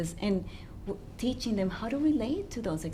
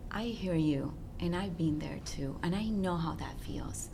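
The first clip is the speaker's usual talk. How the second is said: empathetic parent; 2 semitones lower, 5 dB quieter than usual. Acted. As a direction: gently voice an understanding parent. Voicing a parent empathizing with child.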